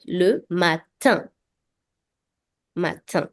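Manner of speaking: le matin slow, nasal in at the end; teacher shows the nasal sound in le matin, slowly; nasal vowel demo. Shown as a demonstration. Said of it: "you will pronounce it like this word".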